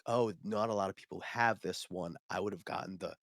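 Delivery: soft, wistful letdown; regretful customer. Retold or imitated. Customer wishing she bought the rarer set, softly regretful. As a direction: voice her quiet second thoughts.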